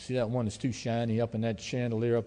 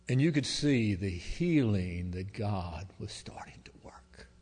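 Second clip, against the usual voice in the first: whisper; 2 semitones lower, slower than usual. Real, not acted. Awed moment, healing described.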